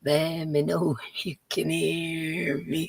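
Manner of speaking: slow, giggling through the line; playful slow mic-check chant; laughing singsong. Shown as a demonstration. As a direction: sing it out while laughing. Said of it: "with my horrible voice".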